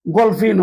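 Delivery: গলফিন drawn out slowly with a hard g, the Portuguese way; slow Portuguese word. Shown as a demonstration. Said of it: "গে অ গ". (ধীরে Portuguese উচ্চারণে গলফিন)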